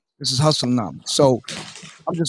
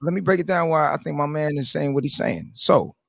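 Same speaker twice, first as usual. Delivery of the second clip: in character; 3 semitones lower, 5 dB quieter than usual. Acted. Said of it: "That's how he talk".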